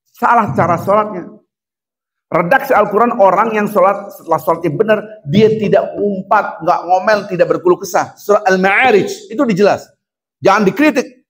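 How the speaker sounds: high and loud, urgent sermon; fiery preaching. Acted. Preacher scolding the congregation to return to zikir, fiery preaching. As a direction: preach at full force, pressing the crowd. Continues full-force preaching.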